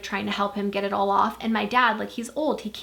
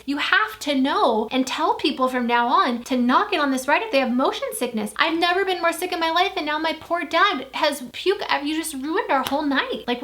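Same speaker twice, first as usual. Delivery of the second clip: angry scolding; 5 semitones higher than usual. Retold or imitated. Scolding the tour guide.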